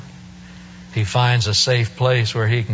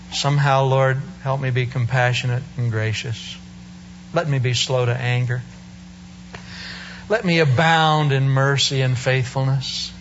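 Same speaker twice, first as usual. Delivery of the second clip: heartfelt prayer. Acted. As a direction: pray it sincerely to God. Preacher prays aloud.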